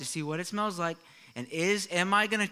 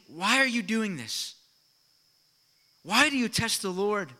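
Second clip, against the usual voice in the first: raised, pressing questions, mildly angry; a touch of anger; 4 semitones higher, 5 dB louder than usual. Retold or imitated. Moses confronting the grumbling people, mildly angry. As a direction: press them hard, a bit higher and louder. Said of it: "maybe he's angry".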